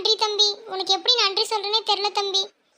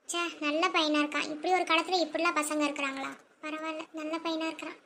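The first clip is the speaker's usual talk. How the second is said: softly acted aside, trailing quieter; musing to herself; 2 semitones lower, 7 dB quieter than usual. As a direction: say it under your breath, to yourself. Mother musing alone after he leaves. (தனக்குத்தானே மெதுவாகப் பேசுவது)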